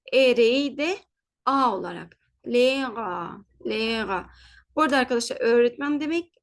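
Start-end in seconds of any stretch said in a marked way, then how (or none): 2.5-4.3 "Lera" with R softened, final a; German pronunciation demo. Shown as a demonstration. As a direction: say "Lera" with long e, no H. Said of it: "R harfini yumuşak G".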